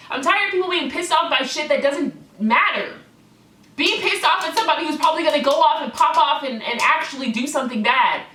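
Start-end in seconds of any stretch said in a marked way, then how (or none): 3.8-8.2 loud, fast heated rant. Real, not acted. Vlogger ranting at online haters, loud and heated. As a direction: let it boil over. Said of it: "I'm actually getting heated".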